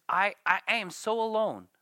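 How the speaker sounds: anguished cry of loneliness; lonely Job. Acted. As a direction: wail it like a forsaken man. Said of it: "Here Job is just".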